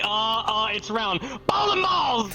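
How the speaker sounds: retold shout. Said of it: "So I just started screaming bowling balls".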